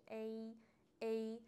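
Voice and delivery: ای said as a held "ay", repeated; isolated "ay" sound. Shown as a demonstration. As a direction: demonstrate ای alone as the English "ay".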